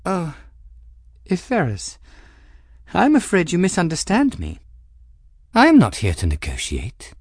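cool, arch noblewoman with a sly edge; Cavendish voice. Acted. Cavendish needling the captain, arch and cool. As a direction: speak as the poised Madame Cavendish, lightly mocking.

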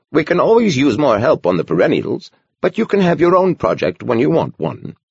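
put-on a gentle old monk speaking kindly; gentle old man voice. A narrator's reading. Horner replies.

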